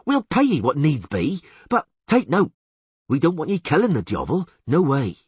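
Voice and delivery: high, loud, pushy rustic peasant voice; agitated old villager Netley. Acted.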